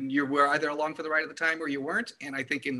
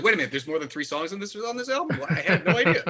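playful, exaggerated disbelief, laughing at the end; mock surprise; 4 semitones higher, 5 dB louder than usual. Podcaster mocking confused album buyers, laughing mock disbelief. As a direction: pitch jumps high on album, louder and laughing through the last bit. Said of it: "Everybody's like".

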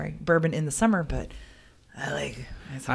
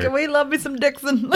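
high, gushing cheer; excited; 11 semitones higher than usual. Real, not acted. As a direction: squeal the name with glee. Excited shout of love.

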